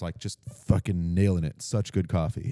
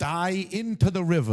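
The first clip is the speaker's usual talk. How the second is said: hammed-up Chicago accent, slow and higher; playing a Chicago union plumber, drifting off the accent; mock Chicago accent; 8 semitones higher than usual. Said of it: "Mine was more of a fucking weird accent".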